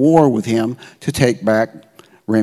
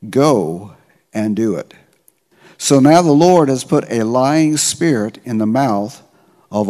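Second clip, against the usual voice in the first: scripture reading. Acted. Pastor reading the prophet's words to the congregation, measured reading. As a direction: read it out like a preacher at the lectern. Reads scripture passage aloud.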